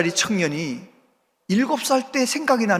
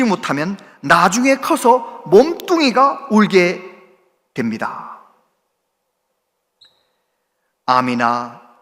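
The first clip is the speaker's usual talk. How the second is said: quoting a preacher; slower than usual. Retold or imitated. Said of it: "목사님이 이렇게 설교하시는 거예요".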